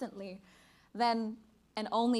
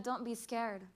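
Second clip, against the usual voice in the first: reassuring mother. Acted. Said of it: "turned and said".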